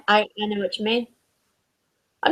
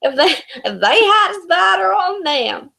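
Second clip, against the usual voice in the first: put-on Southern American accent; 4 semitones higher than usual. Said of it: "the only American accent I could do".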